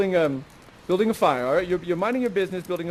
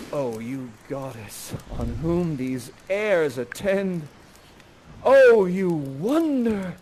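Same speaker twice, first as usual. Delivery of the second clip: smitten; 3 semitones lower, much slower than usual. Acted. Ferdinand smitten by Miranda.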